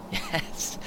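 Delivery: breathy laugh into a high yes. Real, not acted. Looking at the granddaughter's photo, laughing high. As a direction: laugh as you agree, impressed.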